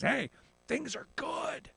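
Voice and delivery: slow, drawn-out rising hey, things are good; smug mock voice. Host mocking the Chamber of Commerce with a smug slow voice. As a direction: play a smug executive.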